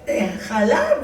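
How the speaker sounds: lightly voiced flustered driver, half laughing; a hint of a flustered bus driver; imitating the bus driver. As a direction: mimic the driver's excited rambling. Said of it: "así hablaba".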